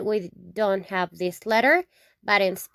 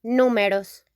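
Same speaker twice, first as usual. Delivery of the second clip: Números with the stress on the NÚ; teacher showing the accented U. Shown as a demonstration. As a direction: hit the first syllable of Números. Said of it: "With an accent in the U".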